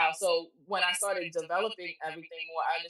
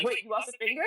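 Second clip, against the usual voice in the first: retold surprise; 6 semitones higher than usual. Retold shock at the finger.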